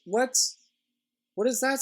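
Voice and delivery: high, sharp shocked what. Real, not acted. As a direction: react in real disbelief. Shocked by game penalty.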